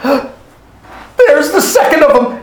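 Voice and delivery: high, drawn-out exclamation; dramatic exclamation. Acted. Robin exclaiming at the cook, slow and high.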